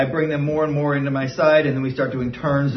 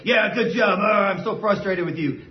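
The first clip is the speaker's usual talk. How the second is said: frustrated praise; 4 semitones higher than usual. Shown as a demonstration. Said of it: "If you're still like".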